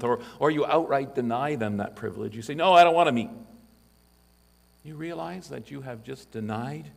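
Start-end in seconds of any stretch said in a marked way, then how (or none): 2.5-3.3 louder, higher flat "No"; blunt refusal. Retold or imitated. Congregant brushing off the elder's call, blunt loud refusal. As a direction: slam the door on the request.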